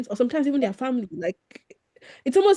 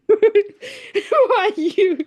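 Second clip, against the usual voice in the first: a laughing, badly faked British accent, high and loud; mock posh British, cracking up mid-line; 12 semitones higher, 6 dB louder, much slower than usual. A Nigerian friend mocking British small talk in a bad British accent. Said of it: "such a bad imitation accent".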